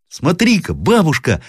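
put-on high child's cry; boy calling out. A narrator's reading. Grandson calls grandmother in the night, piping cry. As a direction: call out like an eager little boy. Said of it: "закричал мальчик".

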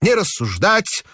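put-on high old man's order with rising end; hoarse old man. A narrator's reading. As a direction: repeat it like a stubborn old man. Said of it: "старческий охрипший голос".

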